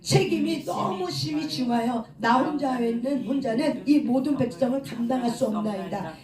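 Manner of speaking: measured congregational Bible reading; scripture reading aloud. Acted. Preacher leading congregation through Moses' prayer, measured scripture reading. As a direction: read the verses out steadily for all to follow.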